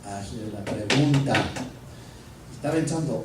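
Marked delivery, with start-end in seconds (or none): 0.0-1.3 slow, firm command; firm inner voice. Retold or imitated. God's voice telling the pastor, slow and firm. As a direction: lay down the order slowly. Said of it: "esa voz espiritual me dice".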